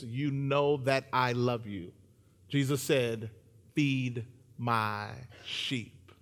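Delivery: slow, measured reading aloud; scripture reading. A narrator's reading. Preacher reading Jesus and Peter's talk to the congregation, slow and solemn. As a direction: read the verse deliberately, with weight.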